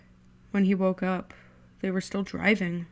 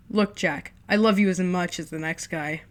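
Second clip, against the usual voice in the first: sarcastic; 3 dB louder than usual. Acted. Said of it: "voice deep and sarcastic".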